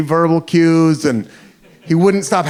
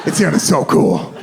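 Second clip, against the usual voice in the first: put-on British accent; 3 semitones lower than usual. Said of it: "He said".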